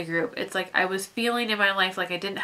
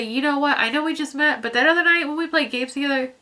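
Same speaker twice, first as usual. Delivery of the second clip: heartfelt thanks; 6 semitones higher than usual. Retold or imitated. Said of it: "turn around and say".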